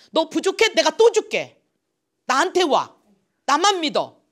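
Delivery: loud, high, fatherly appeal; God pleading with his people, high and loud; God reassuring. Retold or imitated. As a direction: urge them to trust you. Voicing God's reassurance.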